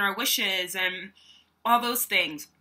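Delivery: talking with food in mouth; words around a mouthful of food; mouth full. Real, not acted. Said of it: "I still had some food in my mouth".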